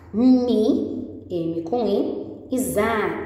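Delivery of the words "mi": "mi" sounded out high and loud; teacher sounding out "mi"; syllable spelled out. Shown as a demonstration. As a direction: stress the syllable "mi" as she spells it. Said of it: "sílaba".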